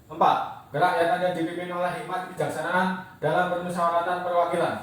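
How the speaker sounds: rapid, even-pitched rote recitation; fast schoolroom recital with pauses between items; recitation from memory. Real, not acted. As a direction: rattle off a memorised pledge, numbering each item. Pupil recites Pancasila from memory.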